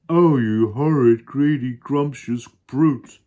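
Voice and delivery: high, loud hippo outcry; Humpy Rumpy. Acted. Hippo scolding the crocodile, high and outraged. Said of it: "cried Humpy Rumpy".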